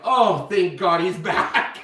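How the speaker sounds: relieved laugh. Retold or imitated. Everyone relieved he's lucid.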